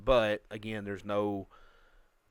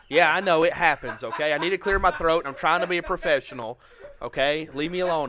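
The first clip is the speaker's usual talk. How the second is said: laughing embarrassed; 6 semitones higher, 9 dB louder than usual. Real, not acted. Flustered after voice crack.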